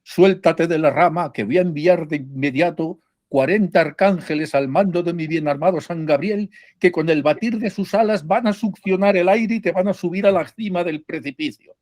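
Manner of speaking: a hint of a booming divine voice; gently hammed-up God calling down from the sky. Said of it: "se abren así los cielos y se dice".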